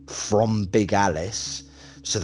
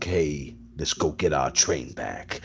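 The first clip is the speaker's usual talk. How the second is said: acted Leighton line; 4 semitones lower, slower than usual.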